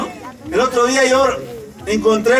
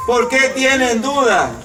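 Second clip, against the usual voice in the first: slow question. Acted. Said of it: "nos hará el Señor".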